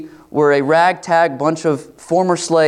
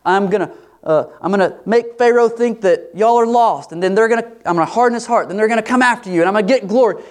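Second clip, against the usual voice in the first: higher, commanding voice of God laying out the plan; voicing God; 6 semitones higher than usual. Preacher voicing God to Israel, lightly commanding. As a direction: announce the plan step by step, confident. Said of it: "He says".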